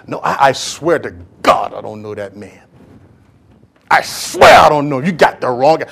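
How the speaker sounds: low panicked protest; frantic Peter denial. Acted. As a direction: swear it off as cornered Peter. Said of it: "Peter denying".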